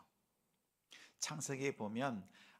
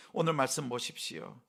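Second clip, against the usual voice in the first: normal talking voice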